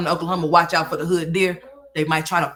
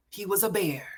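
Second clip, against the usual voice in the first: whispered aside, unvoiced; 2 semitones higher, 6 dB quieter than usual. Real, not acted. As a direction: lean in and whisper it.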